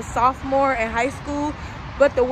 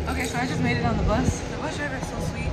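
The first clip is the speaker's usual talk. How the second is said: breathless after running; panting a little; out of breath; 3 dB quieter, faster than usual. Real, not acted. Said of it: "I'm out of breath".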